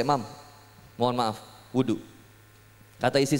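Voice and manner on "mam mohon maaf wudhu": low, soft, halting plea; meek polite request. Retold or imitated. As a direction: ask your wife carefully, in a small low voice. Gently asking angry wife to wash. (permintaan maaf yang pelan dan hati-hati)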